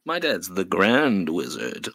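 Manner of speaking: ordinary delivery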